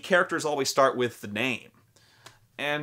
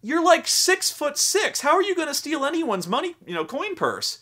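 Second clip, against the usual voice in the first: mocking wizard; 3 dB louder than usual. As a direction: play the snooty wizard who doubts the big half-orc. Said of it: "the guy goes".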